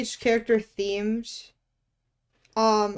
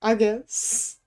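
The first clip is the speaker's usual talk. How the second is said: mock disappointment; underwhelmed reaction, excitement gone; retold letdown; much slower than usual. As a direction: act out deflated, grudging acceptance. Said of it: "And then you pulled out that".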